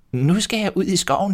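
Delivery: high motherly goat voice. A narrator's reading. Mother goat warning her kids, high and caring. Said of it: "kaldte den på dem alle syv og sagde".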